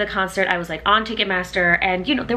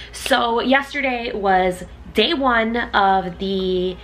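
slow reading; 3 semitones higher, slower than usual. Real, not acted. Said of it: "I'm reading it off of my laptop".

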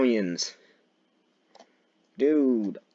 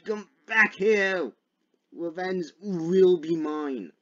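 high, slow villainous vow; mock vengeful; 7 semitones higher, slower than usual. Player chasing a fleeing game foe, mock vengeful. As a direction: stretch it out high, like a playful avenger.

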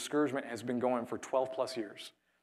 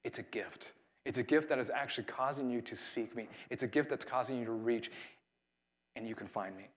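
much softer, hushed, as God gently speaking; soft whisper-like voice; 6 dB quieter than usual. Retold or imitated. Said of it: "God's just whispering".

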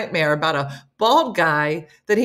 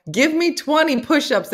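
higher, mildly raised mock yell; retold drill sergeant yell; 9 semitones higher, 5 dB louder than usual. Imitating the drill sergeant husband talking in sleep, mock yell. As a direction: imitate a sergeant's order, lightly. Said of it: "He yelled".

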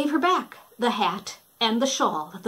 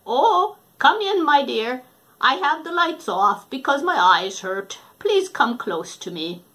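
lightly voiced false grandma; wolf faking Granny; 3 semitones higher, 5 dB louder than usual.

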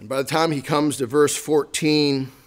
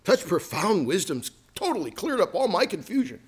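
mock praise; 3 semitones higher than usual. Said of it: "it's like Job saying to them".

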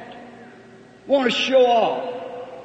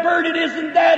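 retold shout; 5 semitones higher than usual. Preacher rebukes Bert in retold quarrel.

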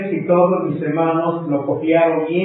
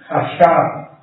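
Hashab with the accent on its last A; Hashab, final A accented; stress on last A. Shown as a demonstration. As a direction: say Hashab, leaning on the final syllable. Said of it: "con acento en la última A".

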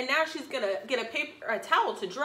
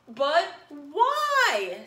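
cartoon princess; 2 semitones higher, 5 dB louder than usual. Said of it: "said the little princess".

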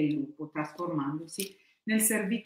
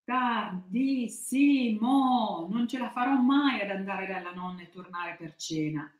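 put-on whiny childish wail; 5 semitones higher than usual. A narrator's reading. Cappuccetto Blu realising she is late, whining. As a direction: stretch "Tardissimo" into a dismayed wail. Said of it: "e cominciò a piangere".

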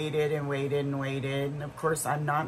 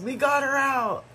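excited son; 10 semitones higher, 5 dB louder than usual. Retold or imitated. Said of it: "my son says".

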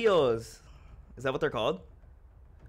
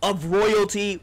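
hype announcement; 7 semitones higher, 4 dB louder than usual. Real, not acted.

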